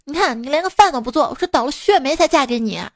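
grumbling wife. Retold or imitated. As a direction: imitate a wife complaining at her husband. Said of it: "老婆就开始发牢骚说".

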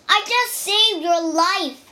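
loud, high indignant outburst; angry cry. A narrator's reading. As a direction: shout back in offended anger. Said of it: "he cried".

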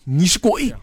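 anguished cry. A narrator's reading. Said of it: "痛苦的一声大叫".

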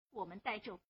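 angry rebuke. Acted. Girl angrily scolding the old man for his cowardice. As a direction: throw it in his face.

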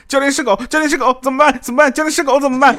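high, loud panicked cry; student driver panics at a dog, high and loud; panicked yelling. Retold or imitated. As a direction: yell in a flustered panic at the instructor. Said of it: "紧张就喊".

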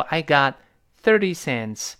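"got" with its final t held back; unreleased t. Shown as a demonstration. Teacher shows learners the lost plosion, unreleased "got". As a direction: stop the t of "got" before "thirty cents". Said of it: "最后那个t失去爆破".

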